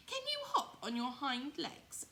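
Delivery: high nosy wild rabbit question; furry rabbit voice. Acted. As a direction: ask it high as a curious wild bunny. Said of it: "asked the furry rabbit".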